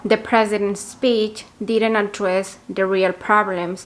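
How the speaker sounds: slow, careful model sentence; slow example sentence. Shown as a demonstration. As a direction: read it slowly for learners. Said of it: "se puede decir algo así como". (frase de ejemplo lenta)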